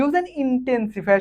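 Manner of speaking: very slow, spelled-out reading of the instruction; slow dictation. Shown as a demonstration. Teacher reading the exercise instruction to students, very slow. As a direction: read the task aloud word by word. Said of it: "teacher reads the instruction".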